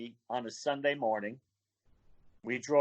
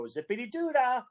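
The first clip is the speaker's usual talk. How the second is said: put-on high-pitched old white guy voice; 10 semitones higher than usual. Shown as a demonstration. Guest shows off his travel-companion's favorite bit, old white guy voice. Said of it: "I use my old white guy voice".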